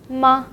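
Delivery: Ma short and light; a brief, light Ma, like a knock; neutral tone. Shown as a demonstration. Teacher models the particle for learners, short and light neutral tone. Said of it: "It's short and light".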